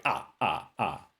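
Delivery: mock Dracula counting; Count Dracula impression. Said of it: "sound like Count Dracula".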